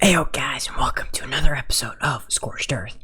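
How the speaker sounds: soft, hushed whisper. Welcoming the audience at the start of an episode, whispering. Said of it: "if you're wondering why I'm whispering".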